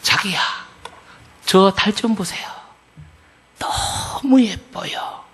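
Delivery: coy bride in Seoul speech, drawing out the gushing; Seoul accent. Acted. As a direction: play a sweet Seoul woman admiring the moon. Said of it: "서울말로".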